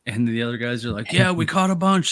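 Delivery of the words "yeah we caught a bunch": put-on high, loud proud Canadian accent; hammed-up Canadian fisherman. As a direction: boast the catch in a Canadian accent. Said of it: "super Canadian accent".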